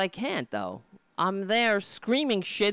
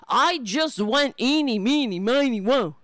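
mock dim voter. Mimicking the voter again.

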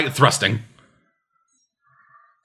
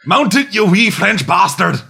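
put-on Scottish accent; 5 semitones higher, slower than usual. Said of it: "I can only do a Scottish accent".

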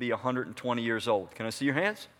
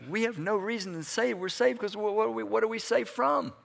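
rising challenge; 7 semitones higher than usual. Real, not acted. Preacher challenges the congregation, voice climbing higher. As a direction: pitch climbs higher into a pointed question.

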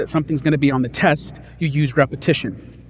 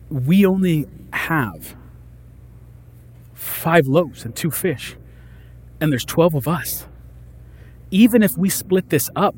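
worried disciple. Pretend. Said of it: "I know what I would be thinking".

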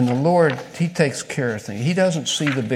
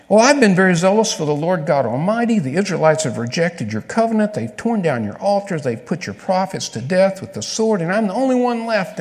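raised, louder self-pitying plea; whiny prophet pleading his case; Elijah complaining; 5 semitones higher, 3 dB louder than usual. Acted. Elijah complaining to God, a mild whiny plea.

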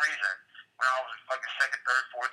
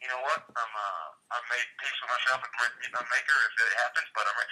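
Bradley Cooper's character voice; 4 semitones lower than usual. Retold or imitated. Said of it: "said in the character's voice".

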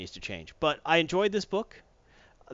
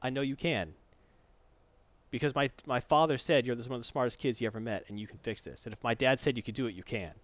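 softer, gentle encouragement; reassuring; 2 semitones lower, 4 dB quieter than usual. Retold or imitated. Spinneret encouraging Normie, soft and reassuring. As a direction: coax him gently, quietly.

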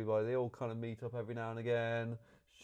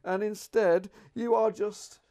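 loud, high, incredulous outburst; raised voice, stretched-out words in disbelief; exasperated rant; 10 semitones higher, 9 dB louder than usual. Real, not acted. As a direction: protest the plot hole at full volume. Exasperated rant at film's plot.

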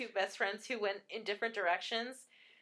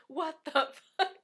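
mock-mouthed question breaking into a laugh; amused, laughing imitation; imitated mouthing through laughter; 5 semitones higher, 4 dB louder than usual. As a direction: exaggerate the mouthed words while cracking up. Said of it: "He mouths, like".

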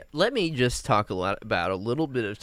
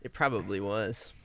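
whispering; 4 semitones lower, 7 dB quieter than usual. Acted. Conspiracy joke.

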